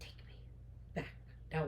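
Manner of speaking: very soft, word-by-word demand; quiet, halting acted command; hushed insistence. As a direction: drop to a near-whisper, pausing between words. Repeats demand after his plea.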